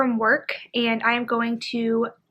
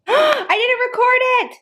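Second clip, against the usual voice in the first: shocked gasp; 13 semitones higher, 3 dB louder than usual. Real, not acted. Vlogger realizing she forgot to record, high dismayed gasp. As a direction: gasp then high, slow cry of dismay.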